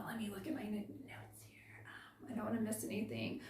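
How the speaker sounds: very soft, half-whispered aside to yourself; hushed, distracted self-talk; absent-minded aside. Real, not acted. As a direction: trail down to a near-whisper while checking notes. Aside while checking her notes.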